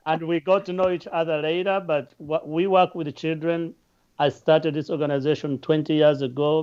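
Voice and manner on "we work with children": ordinary talk, nothing marked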